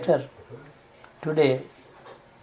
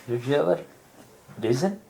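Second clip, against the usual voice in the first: "listen" set apart after a pause, rising; pause, then put the question on "listen"; stress on LISTEN. Shown as a demonstration. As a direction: hold back, then lift "listen" as its own question. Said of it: "stress on every word gives a different attitude".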